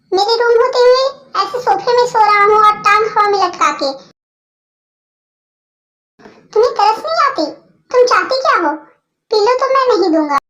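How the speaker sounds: loud, aggrieved rant; angry complaint. Acted. To the girl taking his pillow, a loud aggrieved rant.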